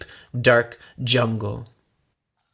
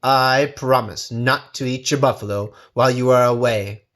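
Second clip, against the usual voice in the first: mock sincere; 2 semitones lower than usual. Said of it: "The tiger smiled his most sincere smile".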